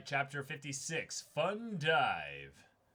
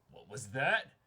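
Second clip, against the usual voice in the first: put-on indignant old diver; 7 dB louder than usual. Old diver bristles at guide.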